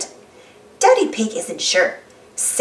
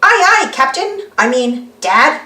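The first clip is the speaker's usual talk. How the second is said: Danny Dog voice; 3 semitones higher, 5 dB louder than usual. Acted. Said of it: "says Danny Dog".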